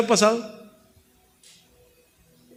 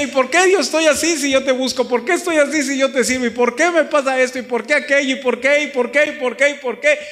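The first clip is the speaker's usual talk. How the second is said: higher and louder, pressing questions at God; demanding Job; 7 semitones higher, 4 dB louder than usual. Retold or imitated. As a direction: challenge God with each why. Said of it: "Tan lo quería cuestionar que le decía". (Job reclamando a Dios, más agudo y fuerte)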